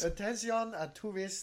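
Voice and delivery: loud, high, hammed-up French greeting; mock French announcement. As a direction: bellow it like a comic Frenchman at tourists.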